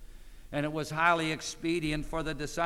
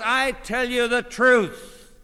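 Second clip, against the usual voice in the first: "I" stressed, the whole line higher and louder; emphatic I; 8 semitones higher, 7 dB louder, slower than usual. Shown as a demonstration. Preacher stressing "I" to his listeners. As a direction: lean hard on "I" and say it slowly. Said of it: "The personal pronoun in the Greek here is emphatic".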